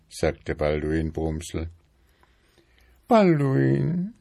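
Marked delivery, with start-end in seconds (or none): 3.1-4.1 high-pitched, fussy wife voice, louder; nagging wife beetle. A narrator's reading. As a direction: pester him in a high, insistent voice. Wife calls husband.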